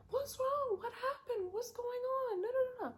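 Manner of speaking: high, frantic, close to crying; panicked grandmother. Retold or imitated. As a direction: play the grandmother rushing in scared. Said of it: "grandmother came rushing out".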